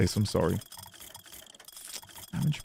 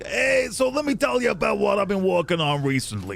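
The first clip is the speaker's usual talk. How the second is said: higher, hammed-up Jersey-style American accent; attempted Jersey accent; 5 semitones higher than usual. Streamer imitating someone's chatty plug, mock Jersey accent. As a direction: put on a rough Jersey accent. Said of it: "I'm not from Jersey".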